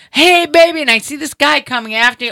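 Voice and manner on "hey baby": high, drawn-out street holler; mimicking a man yelling come-ons; imitated catcall yell. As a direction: call after a passerby, pitched well up. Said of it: "talking to me and he's yelling".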